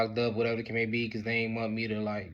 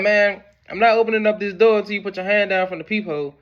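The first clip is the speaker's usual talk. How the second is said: loud insistent call through a door; demanding; 7 semitones higher, 6 dB louder than usual. Retold or imitated. Son refusing to open until the peephole is uncovered. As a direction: lay down the condition.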